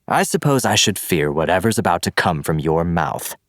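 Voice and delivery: mock her, unafraid; mocking villain. Villain mocks before roar.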